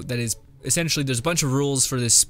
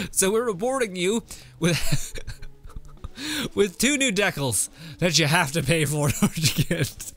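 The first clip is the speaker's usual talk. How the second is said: higher, laughing mock company voice; mock developers, laughing; 4 semitones higher than usual. Mocking the developers' event rewards, laughing. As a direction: parody a sales pitch through giggles. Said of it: "where it's like".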